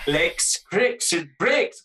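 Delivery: a hint of a Scottish lilt on creeks and breaks; lightly Scottish, drawing out breaks; Scottish accent. Friend jokes the headline sounds Scottish, light Scottish accent. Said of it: "Oh, he's Scottish".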